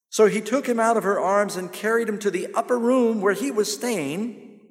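rising preaching. Real, not acted. Preaching at full force.

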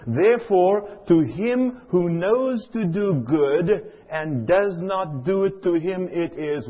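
slow, emphatic reading of the verse; Scripture reading. Shown as a demonstration. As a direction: read the verse to the congregation with weight. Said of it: "Listen to James chapter four".

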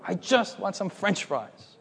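soft, high, slow whimper; mock-tearful little boy's plea; imitated crying child. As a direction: whimper it pitifully, drawn out. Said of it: "And he starts crying".

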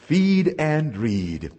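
feed and read, said very slowly with weight on feed; slow deliberate motto; slow, drawn out. Shown as a demonstration. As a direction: stretch out feed and read so it sinks in.

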